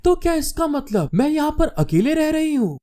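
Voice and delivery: high-pitched puzzled question; surprised girl. A narrator's reading. Girl learning she will stay alone, surprised. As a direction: ask it high, taken aback. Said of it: "हैरान होते हुए कहती है".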